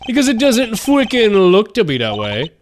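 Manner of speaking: lively, swinging pitch, puzzled; lightly voiced game character, incredulous. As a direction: play a baffled, animated game character.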